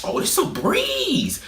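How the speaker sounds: high, slow, carefree "Oh, this a breeze"; breezy confidence. Retold or imitated. A fast test taker who knows the answers, breezy. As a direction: sing "breeze" like the test is nothing. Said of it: "If I know it".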